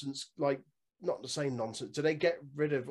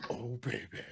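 a singer impression; 3 semitones lower, 8 dB quieter than usual. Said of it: "a singer impression".

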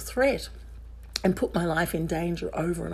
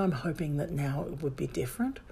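whispered aside; 3 semitones lower, 6 dB quieter than usual. Real, not acted. Hopeful aside.

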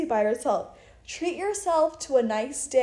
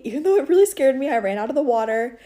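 excited; 3 semitones higher, 4 dB louder, faster than usual. Real, not acted. Retelling being scared.

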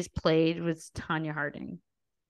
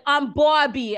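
Margot Robbie voice; 6 semitones higher, 5 dB louder, slower than usual. Retold or imitated. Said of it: "she shows up and she's like".

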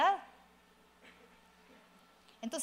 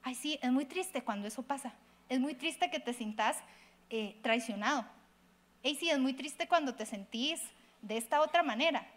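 softer, sympathetic voice; empathetic reply; 2 semitones lower, 4 dB quieter than usual. Shown as a demonstration. Pastor demonstrates answering a loved one, soft and empathetic. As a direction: validate their sadness gently. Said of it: "tírelo hacia la tristeza".

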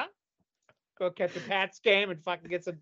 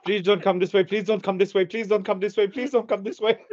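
pleading Palestinians; 2 semitones higher, 6 dB louder than usual. Pretend. Palestinians begging the Puritans' boat to pass them by, loud pleading. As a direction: beg them not to come, louder each time.

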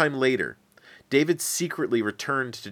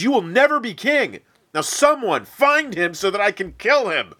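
much higher and louder furious king; furious yell; 10 semitones higher, 6 dB louder than usual. Acted. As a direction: roar it at your disloyal son. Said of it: "became furious and yelled".

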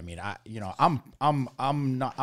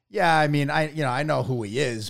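hedging reply; 4 semitones higher, 6 dB louder than usual. Retold or imitated. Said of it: "I'd be like".

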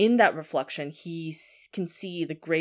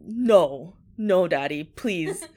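mild, louder frightened plea; scared child pleading; 5 dB louder, much slower than usual. Retold or imitated. Son begging his father not to do it, mock scared. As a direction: plead like a scared little son, lightly acted. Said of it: "gets so scared".

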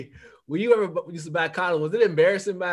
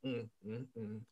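put-on disapproving old lady; 10 semitones lower, 22 dB quieter than usual. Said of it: "She be like".

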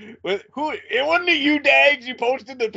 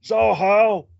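lightly hammed-up wrestler bluster, a bit higher; mock wrestling promo; 4 semitones higher than usual. Host hams a wrestler promo at his co-host, lightly blustering. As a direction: play a blustering old wrestler cutting a promo, not fully committed. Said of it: "I thought you were being Ron Fuller".

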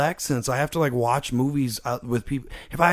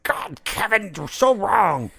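higher-pitched indignant fan complaint; mock exasperated fan; 4 semitones higher, slower than usual. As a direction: whine it like an outraged fan. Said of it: "The boys fan out there is like".

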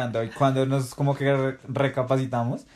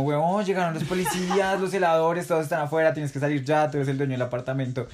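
higher, rushed warning in a lightly voiced friend; mild mock alarm, pitched up; panicked friend; 4 semitones higher than usual. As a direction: play the buddy bursting in with bad news. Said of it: "y el man llega como".

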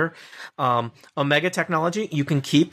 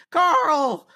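high, loud cry of a name; badger crying out; 3 dB louder than usual. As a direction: call out to a fallen friend. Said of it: "one of the badgers says".

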